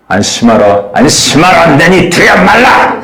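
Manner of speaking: firm and urgent, rising at 말라; stern warning. Shown as a demonstration. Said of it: "야곱 워닝".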